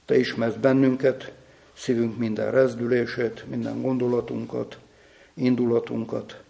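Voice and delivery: subdued, level-pitched prayer with pauses; spoken prayer. Real, not acted. A preacher asks God for honest, humble hearts, subdued real prayer. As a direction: pray aloud in measured phrases, sincerely.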